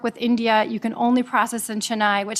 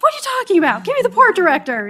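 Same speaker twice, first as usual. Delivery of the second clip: much higher, louder mock outrage; indignant protest; 9 semitones higher, 6 dB louder, faster than usual. Lawyer reacting to a call from the border, indignant. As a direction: demand it in a high, incredulous voice.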